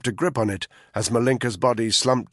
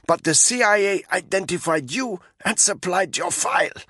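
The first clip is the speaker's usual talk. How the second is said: higher, strained captive woman's voice; a frightened prisoner talking under a rope; Malinka's voice; 6 semitones higher than usual. A narrator's reading.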